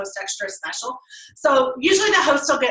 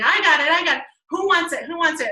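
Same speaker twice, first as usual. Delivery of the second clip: lively auctioneer calling bids; 4 semitones higher than usual. Shown as a demonstration. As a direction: call it like an auctioneer. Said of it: "I do it like auctioneer style".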